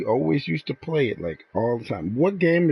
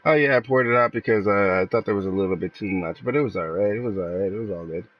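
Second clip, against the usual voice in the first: casual shrug of a reply, fading softer to the end; easygoing, unbothered; 9 semitones lower, 3 dB quieter, faster than usual. Shown as a demonstration. Showing his friend how to answer without blaming her, relaxed and easy. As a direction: let it go lightly, no blame in it. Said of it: "This is how you should have said it".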